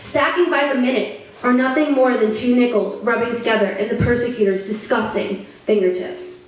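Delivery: emphatic, rhythmic poetry recital; earnest, measured performance with lifted key phrases; spoken-word poem. Acted. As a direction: recite it like a slam poet, line by line.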